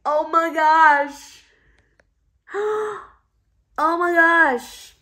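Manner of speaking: high, slow, thrilled gushing; excited squeal. Real, not acted. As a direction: gush over it with delight. Thrilled by the finished candle.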